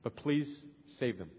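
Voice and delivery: a touch of remembered begging; retold pleading prayer. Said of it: "I remember crying and begging God".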